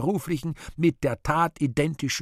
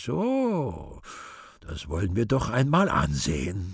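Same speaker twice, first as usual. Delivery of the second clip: friendly; slower than usual. Acted. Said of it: "gern glaubend freundlich".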